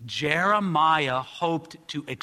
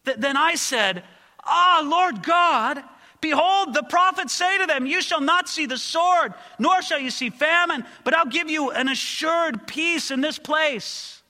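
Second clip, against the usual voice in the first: high, loud and slow, begging God; pleading prayer; 9 semitones higher, 4 dB louder than usual. Acted. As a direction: plead with the Lord in rising anguish. Preacher voicing Jeremiah's pleading prayer.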